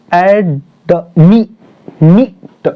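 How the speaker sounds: add, pause, then me and meet pressed out separately; teacher's demo of stress on meet; stressed final syllable. Shown as a demonstration. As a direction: break it up and lean on meet. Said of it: "मतलब stress दे करके".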